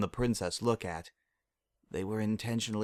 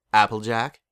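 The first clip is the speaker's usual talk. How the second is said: calling out; 8 dB louder than usual. Acted. Luna calls from the light.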